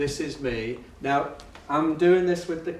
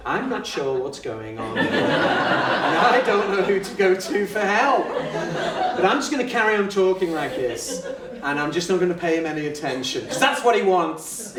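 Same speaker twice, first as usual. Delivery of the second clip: baffled inner monologue; 2 semitones higher, 4 dB louder than usual. Retold or imitated. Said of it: "that face that I've got on there is".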